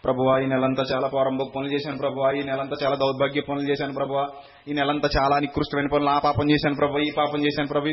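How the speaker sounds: a churchgoing woman's mock sobbing confession to God; mock tearful prayer. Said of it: "కన్నీటితో ఏమని ప్రార్థన చేస్తుందో తెలుసా".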